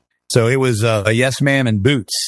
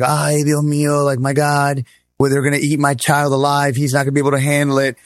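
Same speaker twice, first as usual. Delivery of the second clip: imitating Spanish-accented mom; 3 semitones higher than usual. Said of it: "She's got a thick Spanish accent".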